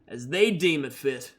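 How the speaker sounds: Red R, solemn bounty hunter. Acted. Red R claiming Danica as prisoner, solemn and cold. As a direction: pronounce the sentence with cold authority. Red R's formal arrest speech.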